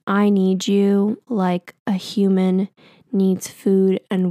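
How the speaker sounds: slow, deliberate retold love poem; mock-earnest poetry reciting; imitated poem recital. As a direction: recite it slowly, line by line. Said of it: "he's starts reciting this poem to me".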